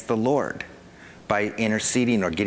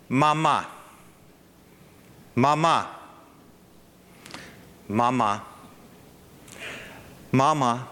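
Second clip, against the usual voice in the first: put-on parent coaxing baby. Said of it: "do you do this to your kid".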